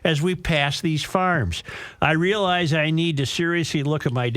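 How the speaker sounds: measured radio read of a listener letter; letter read on air; reading a letter aloud. Acted. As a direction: read it out to the audience, phrase by phrase.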